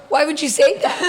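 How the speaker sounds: retold exasperated husband; incredulous repeat. Husband's retold question, repeated for laughs.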